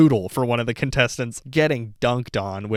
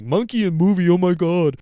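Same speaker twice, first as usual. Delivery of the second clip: scoffing; 7 semitones higher, 5 dB louder than usual. Retold or imitated. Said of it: "being like".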